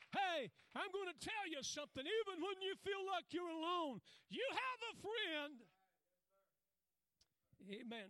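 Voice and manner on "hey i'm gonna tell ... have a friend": high, loud pulpit proclamation; preaching at full force. Acted. Preacher assuring the congregation, a full-force shouted promise. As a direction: lift the whole church with it.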